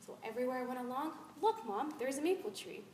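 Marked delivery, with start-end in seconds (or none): 1.4-2.8 put-on mildly excited child's call to Mom. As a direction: point it out with a touch of childish excitement. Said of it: "I was so excited".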